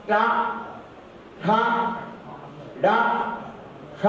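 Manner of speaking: टा ठा डा ठ with tongue curled back; retroflex drill. Shown as a demonstration. Teacher drills retroflex sounds for the class. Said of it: "ए स्थान है".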